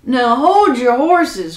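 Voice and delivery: crying out. Acted. Giant stops Jack hurrying him, crying out slowly. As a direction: cry out slowly to halt someone. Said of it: "cried the giant".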